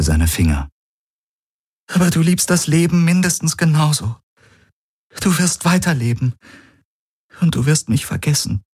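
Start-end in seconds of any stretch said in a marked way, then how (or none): 1.9-8.6 lightly voiced heroine, sorrowful; Ki's voice, sad. A narrator's reading. Narrator voices Ki, higher.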